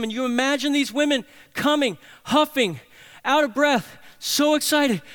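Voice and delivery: high and loud, breathless narration; rising excitement. A narrator's reading. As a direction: let the excitement climb line by line. Describes women running, out of breath.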